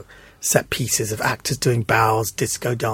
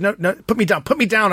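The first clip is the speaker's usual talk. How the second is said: higher, insistent put me down; mock woman's protest; 6 semitones higher than usual. Woman in the wheelchair telling him, high insistent protest. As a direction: voice her pleading to be put down.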